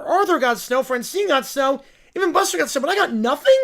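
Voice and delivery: a hint of a bratty child voice; jealous kid whine. Kid envying friends who got snow, mild whine. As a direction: sulk over what the others got.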